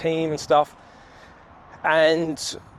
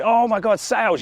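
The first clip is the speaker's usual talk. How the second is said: higher-pitched mock excitement; hammed-up sales enthusiasm, pitched up; mock gushing; 7 semitones higher than usual. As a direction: imitate a born salesperson gushing, stopping short of a scream. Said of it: "screaming and, not screaming".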